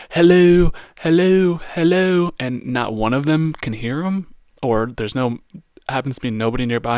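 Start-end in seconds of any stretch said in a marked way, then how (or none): 0.1-2.3 high, loud imitated shouts; hammed-up shouting hello; mock yelling. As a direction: yell it across an empty city. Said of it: "he's just yelling".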